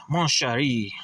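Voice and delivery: light mock French accent; a small flourish of French. Comic reader looking for Lady Liberty, light French accent. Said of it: "she's gotta have a French accent".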